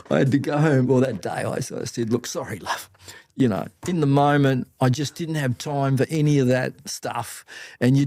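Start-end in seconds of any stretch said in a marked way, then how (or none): 2.1-2.9 much softer, gentle sorry; soft apology. Retold or imitated. Speaker apologises to his wife, soft and gentle. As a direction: make it up to her gently.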